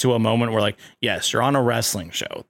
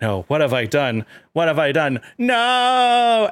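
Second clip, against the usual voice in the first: Kermit despair; 5 semitones higher than usual. Retold or imitated. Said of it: "he's like".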